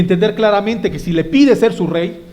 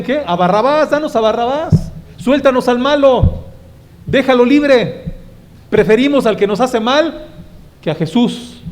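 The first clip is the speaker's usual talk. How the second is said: crowd shouting; 5 semitones higher than usual. Retold or imitated. Mob demanding Pilate free Barabbas, raised mob shout. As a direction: cry out for the thief like a mob.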